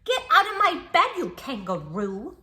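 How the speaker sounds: high, loud playful yell; mock shout. Child orders the kangaroo out of bed, loud mock yell. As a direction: chase him off with a big shout.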